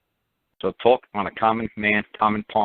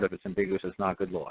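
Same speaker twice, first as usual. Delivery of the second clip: the rule set off as a quotation, a touch quieter; quoted rule; 2 semitones lower, 7 dB quieter than usual. Shown as a demonstration. Quoting the legal rule for listeners, a touch quieter. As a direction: read it out like a quotation, slightly softer. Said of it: "quote unquote".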